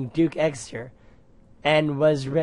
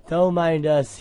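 insisting; 3 semitones higher, 5 dB louder than usual. Acted. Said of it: "he insisted".

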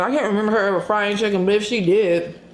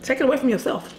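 God's voice; 6 semitones higher, 4 dB quieter than usual. Retold or imitated. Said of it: "He'd be like".

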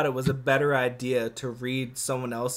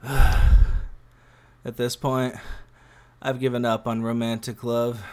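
detached apathy; 5 semitones lower, 3 dB louder than usual. Acted. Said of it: "with a certain detached apathy".

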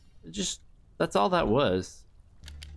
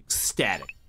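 whisper; 7 semitones lower than usual. Real, not acted. Whispered word after build-up.

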